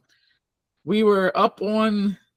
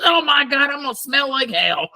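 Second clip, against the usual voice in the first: mock Tam disgust; 6 semitones higher than usual. Tam quoted in story.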